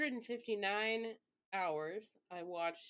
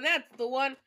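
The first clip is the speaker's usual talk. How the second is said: pleased find; 5 semitones higher, 10 dB louder than usual. Real, not acted. Found the right hold music.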